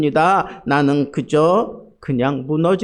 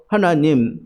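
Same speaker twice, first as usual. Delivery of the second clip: 조급한 기도; 4 semitones higher, 3 dB louder than usual. Retold or imitated. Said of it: "막 조급해지는 거예요".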